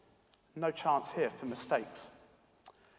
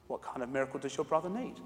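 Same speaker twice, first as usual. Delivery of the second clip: gentle question; 4 dB quieter than usual. Acted. Man stooping to the girl.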